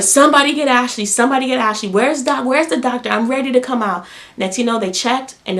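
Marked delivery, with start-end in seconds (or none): 0.0-4.1 louder, higher frantic calls; retold frantic call for help; urgent calling. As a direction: demand help right now, mid-labor. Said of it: "I'm like".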